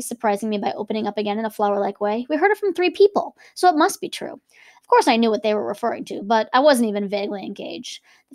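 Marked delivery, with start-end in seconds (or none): 2.3-4.4 insistent. A narrator's reading. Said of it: "insisted Daisy".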